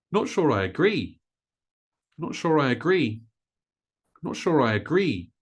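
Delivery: "agree" punched on "gree" after short "Not sure I"; final-syllable stress. Shown as a demonstration. Teacher modelling stress for learners, weight on final "gree" of "agree". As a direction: hurry "Not sure I", land hard on the end of "agree". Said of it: "So stressing that final syllable".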